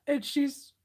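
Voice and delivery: half-cried, drawn-out shriek of fright; mock panicked scream. Retelling the friend's reaction to a spider, a mock scream.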